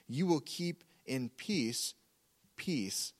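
slow lead-in, "peace," said twice with a pause between; emphatic repetition. Shown as a demonstration. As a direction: give each "peace," its own weight, falling on the second. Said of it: "using repetition for emphasis on".

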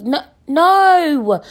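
loud, high emphatic no; loud refusal. Real, not acted. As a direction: shut it down hard. Refusing guy coming over.

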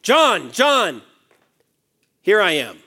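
calling by name. Acted. Preacher voicing God calling a listener, mild insistent call. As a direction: call out to someone in the room by name. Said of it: "Like, hear what he says".

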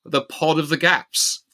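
slow, drawn-out reveal with a laugh; drum roll reveal. Retold or imitated. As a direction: build suspense before the title. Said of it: "drum roll please".

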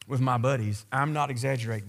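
normal talking voice

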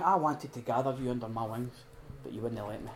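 soft, dropping away, tender sorrow; tender lament. Retold or imitated. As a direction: say it gently, almost to yourself. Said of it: "He's going".

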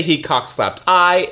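deliberately wrong "He cockslapped I." said slowly; slow mock-wrong example "He cockslapped I."; wrong version, slow. Shown as a demonstration. Teacher showing the wrong grammar slowly. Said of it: "It doesn't make sense".

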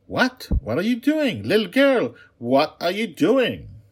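very high, loud panicked cries; screaming princess. Acted. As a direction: scream in panic as the door locks. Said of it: "the princess's screams became stronger".

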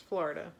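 Florida without a strong R; R left out. Shown as a demonstration. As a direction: let the R in Florida drop away. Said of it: "the R's not there".

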